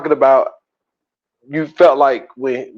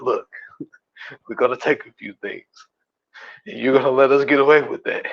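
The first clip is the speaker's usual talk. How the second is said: much softer, fast hushed talk; hushed aside; 6 dB quieter, faster than usual. Retold or imitated. Nick quietly telling the cashier they'll take a few things, hushed.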